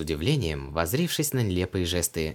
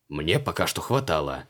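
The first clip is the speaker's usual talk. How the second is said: snapping back; 4 semitones lower than usual. A narrator's reading. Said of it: "огрызнулся Креол".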